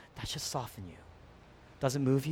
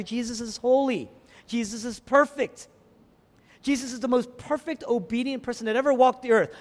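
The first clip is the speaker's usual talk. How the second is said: higher, insistent pulpit declaration; emphatic preaching; 7 semitones higher, 3 dB louder than usual. Real, not acted. Preacher declares Jesus perfect to the congregation, emphatic preaching. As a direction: proclaim it with conviction.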